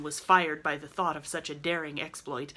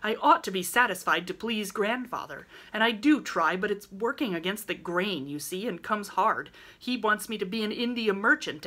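excited; 4 dB louder than usual. Acted. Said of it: "Laurie spoke excitedly".

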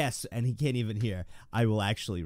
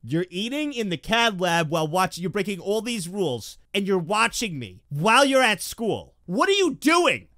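loud, raised-pitch telling-off; mock scolding; 7 semitones higher, 8 dB louder than usual. Streamer tells off a student watching at school, mock scolding.

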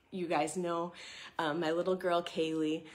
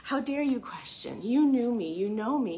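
mock rebuke; 6 semitones higher, 4 dB louder than usual. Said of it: "God didn't say".

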